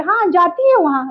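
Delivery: हाँ and है pressed; emphatic yes. Shown as a demonstration. Convincing someone, stressing है. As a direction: insist she goes. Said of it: "जोर देके बोले".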